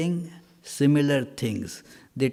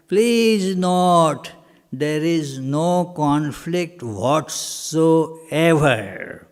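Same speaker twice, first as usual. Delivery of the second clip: raised, emphatic lecture voice; louder, slower and firm; louder on request; 2 semitones higher, 4 dB louder, slower than usual. Real, not acted. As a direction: say it louder so the hall hears.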